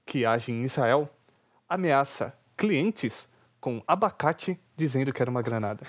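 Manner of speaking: slow, measured headline reading; news headline read. Real, not acted. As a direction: read it out slowly, pausing between phrases. Lê a manchete da notícia. (leitura pausada de manchete)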